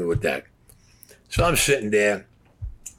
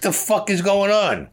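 much higher, slow and drawn out in shock; stunned disbelief; 10 semitones higher, 4 dB louder, slower than usual. Retold or imitated. A man asking the cops what is going on, in stunned disbelief. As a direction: let the disbelief stretch each word.

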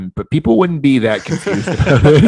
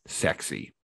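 breathy whispered word; 12 semitones lower, 16 dB quieter than usual. Real, not acted. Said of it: "saying it quiet".

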